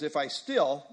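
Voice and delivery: "still" leaned on, falling; stress on still. Shown as a demonstration. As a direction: push the word still to mean previously. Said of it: "meaning previously he did".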